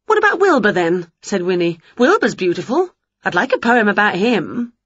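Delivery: eager little witch; a bright excited witch; Winnie voice. Acted. Winnie offers cat.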